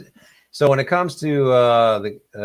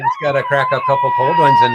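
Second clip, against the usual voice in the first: hammed-up hoser shout; 5 dB louder than usual. Joking about Canadian beer talk.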